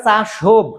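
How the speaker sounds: চাসোভ ending in a voiced v or bh; teacher showing চাসোভ with a voiced final consonant; expected v pronunciation. Shown as a demonstration. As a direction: say চাসোভ as spelt, cha-shobh. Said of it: "উচ্চারণটা হওয়ার দরকার".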